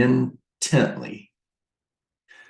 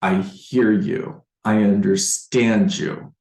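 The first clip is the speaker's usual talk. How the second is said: slow, understanding reassurance; empathetic. Shown as a demonstration. Agent showing a seller they are understood, empathetic. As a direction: let each phrase land slowly, with care. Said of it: "you say it in the right way".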